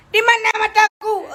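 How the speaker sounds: high, drawn-out mock lament; mock searching wail. Woman fumbling with false lashes, mock searching wail. Playfully hunting for her eye.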